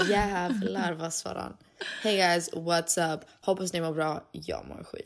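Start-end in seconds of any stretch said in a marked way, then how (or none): 2.0-4.2 vlogger impression. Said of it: "Oh my God, that's you". 4.3-5.0 sudden drop to a much lower, softer voice; gloomy low drop. Retold or imitated. Vlogger mock-moaning to followers, much lower and softer. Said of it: "that's you".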